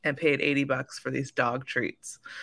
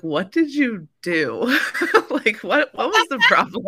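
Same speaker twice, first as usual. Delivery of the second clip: higher, louder, laughing through it; laughing disbelief; 8 semitones higher, 6 dB louder than usual. Retold or imitated. Coach asking a client what she did, laughing. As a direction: laugh as you ask. Retelling her laughing reaction.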